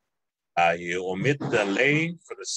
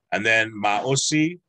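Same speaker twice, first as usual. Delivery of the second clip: slow "maosi" with the a stressed; emphasis on a; 4 dB louder, slower than usual. Shown as a demonstration. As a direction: lean on the a of maosi, slowly. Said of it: "there's an emphasis on a".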